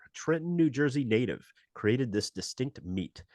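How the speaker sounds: brisk announcer read of a history segment; radio show host. Acted. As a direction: present it like a radio history spot. Hosts the Stupid History Minute.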